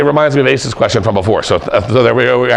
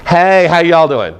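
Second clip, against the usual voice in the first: mock greeting; 5 semitones higher, slower than usual. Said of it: "the dumbest of all questions".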